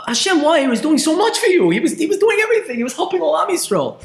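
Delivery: high pleading cry to God; anguished outcry. Acted. Preacher crying out to Hashem over the tzaddik's death, anguished high plea.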